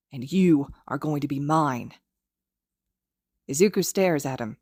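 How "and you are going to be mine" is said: possessive vow trembling with fury; quivering fury. Acted. Kacchan gripping Izuku's arms, quivering with fury. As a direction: let the rage shake the line. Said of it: "voice quivers with fury".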